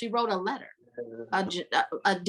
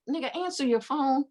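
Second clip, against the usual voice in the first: mock exasperated yell; 6 semitones higher than usual. Reader shouts at the character who won't answer, exasperated. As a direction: yell at him to pick up. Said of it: "I'm like".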